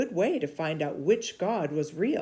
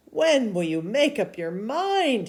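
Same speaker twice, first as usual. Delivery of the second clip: challenging question; 6 semitones higher, 6 dB louder than usual. Acted. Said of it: "he asked".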